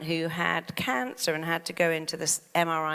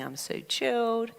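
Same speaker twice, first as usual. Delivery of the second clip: higher, contented self-talk; chilled self-talk; 5 semitones higher than usual. Retold or imitated. Coach recalling her words in the scanner, chilled. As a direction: say it as a relaxed little sigh of pleasure. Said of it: "I was going".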